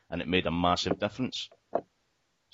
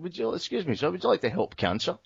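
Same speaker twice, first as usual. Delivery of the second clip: higher, lightly mocking girl's pitch; mimicking charity girl; 9 semitones higher than usual. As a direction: parody her sweet ask. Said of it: "mimicking the charity girl".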